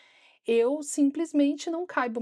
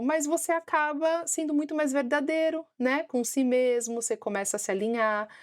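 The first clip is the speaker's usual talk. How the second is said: talking while lining lips; 4 semitones higher than usual. Real, not acted. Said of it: "passar lápis na boca e falar aqui é meio complicado".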